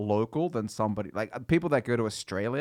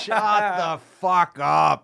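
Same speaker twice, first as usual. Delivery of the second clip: slow, higher, drawn-out mock British; mock posh Cambridge show-off; 6 semitones higher, 5 dB louder, much slower than usual. Friend back from Cambridge, slow mock British. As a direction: sneer at the Cambridge returnee. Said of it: "I was at Cambridge".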